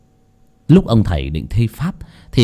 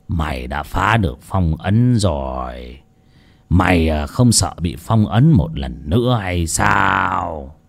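put-on old shaman voice; 4 semitones lower, 4 dB quieter, slower than usual. Old shaman speaks to demon.

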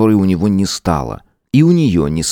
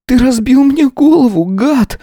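higher, louder furious cry; angry cry; 5 dB louder than usual. Acted. Sveta shouts at the boyfriend who hurt her, higher and louder in fury. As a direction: hurl the accusation at him. Injured woman accuses attacker.

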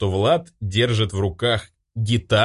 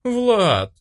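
high, stretched-out female call of his name; drawn-out call; 12 semitones higher, 3 dB louder than usual. Acted. Marina draws out Vlad's name, reproachful chairwoman. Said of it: "протянула Марина Нарышкина".

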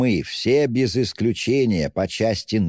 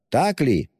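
higher, insistent query; mild shout; 5 semitones higher than usual. A narrator's reading. Razumikhin pressing both ladies to agree, mildly shouting. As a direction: demand an answer with restrained force. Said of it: "Кричал Разумихин".

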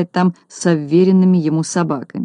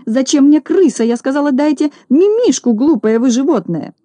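indignant scold; 7 semitones higher than usual. Acted. Lady berating the clumsy detective, high angry scold. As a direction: snap at the fool.

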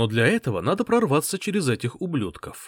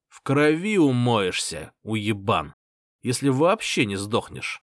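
menacing threat. Acted. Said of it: "угрожающе сказал он".

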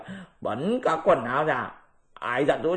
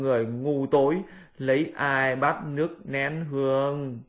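lamenting. Acted. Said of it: "thốt lên một cách thảm thương".

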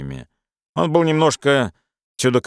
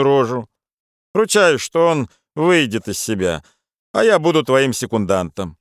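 brash Irish friend; 3 semitones higher than usual. Acted. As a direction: egg him on with swagger. Charles advises.

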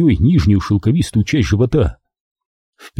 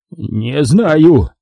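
tired; 6 semitones higher than usual. Acted. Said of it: "устало сказал он".

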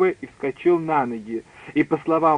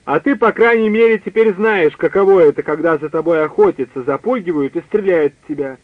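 ordinary delivery, nothing marked

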